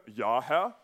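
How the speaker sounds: low, booming fish voice; deep voice. Acted. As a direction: answer like a huge fish from the deep. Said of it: "antwortet mit tiefer Stimme".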